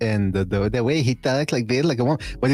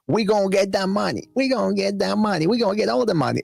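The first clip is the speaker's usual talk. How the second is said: much higher strained mock voice of the father; woman-like Senior impression; 7 semitones higher than usual. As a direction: mimic the dad cheering off camera, pitched way up. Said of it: "the guy sounds so much like a woman".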